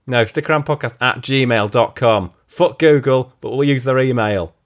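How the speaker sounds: lightly accented mock rant; sweary plug in a wandering put-on accent; like a singer. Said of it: "got this fucking accent now".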